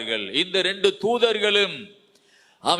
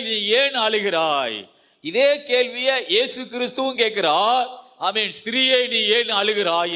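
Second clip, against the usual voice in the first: raised-voice preaching; 4 semitones higher than usual. Real, not acted. Preacher telling the congregation of Mary weeping, raised-voice preaching. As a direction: preach it out with rising insistence.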